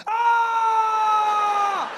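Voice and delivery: sudden high pained scream. Pretend. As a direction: shriek as the stomach turns. Lactose reaction scream.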